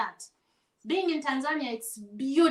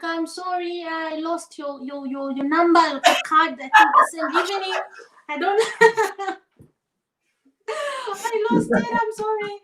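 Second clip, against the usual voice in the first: higher, embarrassed sorry tone; sheepish apology; 4 semitones higher than usual. Retold or imitated. Apologising to the producer for losing his card, sheepish. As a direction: apologise with a nervous laugh.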